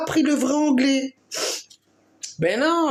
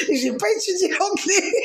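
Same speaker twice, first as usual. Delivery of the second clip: higher-pitched, words breaking into laughter; laughing; 10 semitones higher than usual. Real, not acted. Woman joking about understanding English without studying it, laughing. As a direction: say it while cracking up. Cracking up at her own joke.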